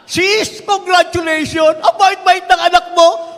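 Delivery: loud, high mock congratulations; sarcastic congratulations. Pastor mocking a parent whose child wrecked the car, sarcastic gush. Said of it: "nanay nung bata".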